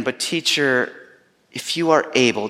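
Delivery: mildly broken father pleading with the teacher; broken plea. Retold or imitated. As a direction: ask it as a man who has almost given up. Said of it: "in the midst of all of his brokenness".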